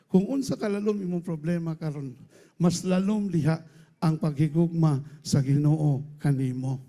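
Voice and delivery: ordinary delivery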